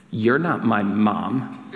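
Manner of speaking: put-on defiant kid. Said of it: "I look her right in the eye, and I go".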